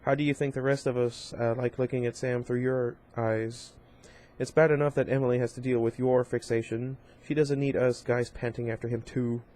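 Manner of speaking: deliberate, each word pressed; slow, emphasizing each word. Acted. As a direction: lay out each word slowly to cut her. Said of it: "I said, slow, emphasizing each word".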